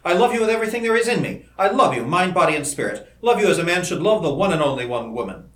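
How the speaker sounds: impassioned lover's vow; fierce intensity. A narrator's reading. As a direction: pour out love with mounting fervor. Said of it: "he continued with a fierce intensity".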